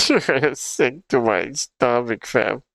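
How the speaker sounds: slow mock Toronto accent through laughter; laughing Toronto slang imitation. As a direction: drag out "sick to my stomach" while giggling. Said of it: "What is that accent?".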